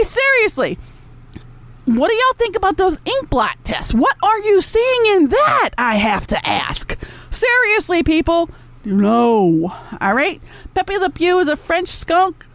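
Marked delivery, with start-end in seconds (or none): 5.8-7.0 hushed, slow sarcastic aside; whispered aside. Real, not acted. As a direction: lean in and whisper it.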